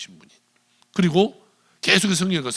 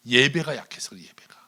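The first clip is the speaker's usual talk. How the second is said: whispered emphasis; 2 semitones lower than usual. Real, not acted. Preacher stresses the key point.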